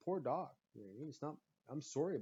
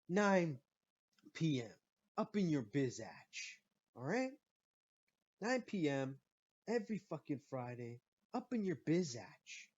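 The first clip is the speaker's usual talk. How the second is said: podcast promo read. Acted. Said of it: "Shitcast, Volume Two".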